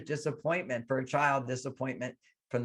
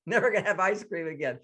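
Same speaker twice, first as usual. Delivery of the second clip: put-on scared little girl; 5 semitones higher, faster than usual. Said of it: "you're scared and afraid".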